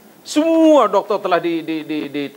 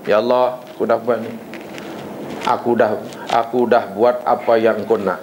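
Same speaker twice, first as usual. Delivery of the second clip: ordering God; 6 semitones lower than usual. Retold or imitated. A worshipper telling Allah it is His turn, low demanding tone. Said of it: "Menyuruh lain".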